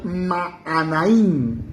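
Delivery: Maanaim, drawn out with wide-open A sounds; wide-open mouth. Shown as a demonstration. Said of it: "Abra bien la boca". (Maanaim, abriendo bien la boca, con la A larga)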